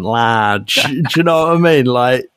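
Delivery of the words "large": lightly put-on Mancunian accent; Manchester accent. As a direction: mimic a Manchester rocker on the one word. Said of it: "Manchester accent".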